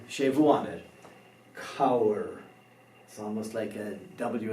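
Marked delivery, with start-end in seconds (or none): 1.6-2.3 Cabhair said as KOW-ir, B H silent; Irish word modelled. Shown as a demonstration. Teacher models Cabhair as KOW-ir, B H silent. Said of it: "the B H becomes silent".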